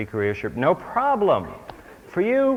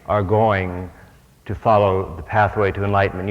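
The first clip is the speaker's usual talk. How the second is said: voice of God; 3 semitones lower, 3 dB louder than usual. Acted. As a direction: proclaim it like a voice from above. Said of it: "pulls you up and says".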